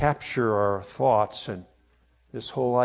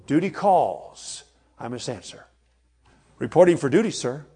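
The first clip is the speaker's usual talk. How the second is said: military response; 3 semitones higher, 4 dB louder than usual. Retold or imitated. A hint of a soldier reporting to his commanding officer. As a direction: snap to like facing an officer. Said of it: "you might say".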